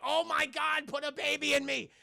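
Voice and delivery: high-pitched gushing; hammed-up lovestruck cry; mock swooning. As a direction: gush like a smitten admirer. Joking swoon over returning hero.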